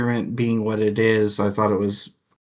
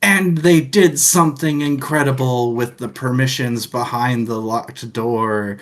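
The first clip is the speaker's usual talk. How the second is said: pompous, raised voice for a grand finale; mock grand reveal; 3 semitones higher, 3 dB louder than usual. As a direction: ham up the epic ending. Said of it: "at the end go like".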